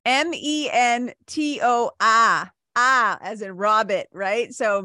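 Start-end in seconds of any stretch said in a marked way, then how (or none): 0.1-2.5 each letter said slowly and apart; spelled out slowly. Shown as a demonstration. Spelling the word for podcast listeners, slowly. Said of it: "hard for me to say that letter".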